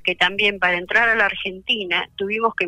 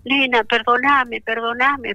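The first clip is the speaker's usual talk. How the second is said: slow, higher pleading, a touch of tears; retold tearful plea; 4 semitones higher, slower than usual. Daughter retelling her crying mother's phone apology, mildly tearful. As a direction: echo mom's tearful apology gently. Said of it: "dijo llorando".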